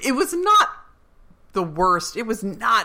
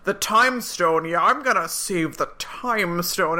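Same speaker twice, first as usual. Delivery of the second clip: imitating bad American accent. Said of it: "So he's like".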